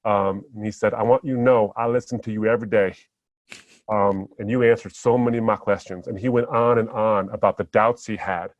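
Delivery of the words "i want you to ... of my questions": lightly imitated Southern accent; a hint of a Southern US fan speaking earnestly. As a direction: retell it with a touch of Southern twang. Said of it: "in a very thick Southern accent".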